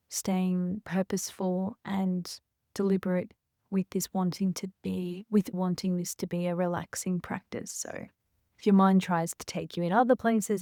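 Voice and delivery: calm breathing guidance, pausing between phrases; guided meditation. Real, not acted. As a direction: guide each breath gently, leaving room.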